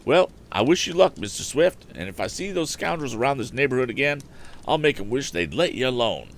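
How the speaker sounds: high, loud, blustering farmer. A narrator's reading. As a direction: promise to run off the scoundrels. Farmer threatens the scoundrels.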